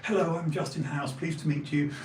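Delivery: nice, proper Dorsetshire voice; nice Dorsetshire accent. Shown as a demonstration. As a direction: introduce yourself in a genteel Dorset accent. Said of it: "my nice Dorsetshire accent".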